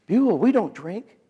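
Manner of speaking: high, slow put-on wife voice; imitated objecting wife.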